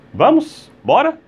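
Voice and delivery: rally someone to leave; urging. Acted. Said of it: "pra dizer assim". (chamando alguém pra ir)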